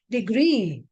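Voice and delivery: Degree with GREE stressed and drawn out; stress on last syllable. Shown as a demonstration. Teacher showing the double E rule, stress on GREE in Degree. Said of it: "the stress is on the last syllable".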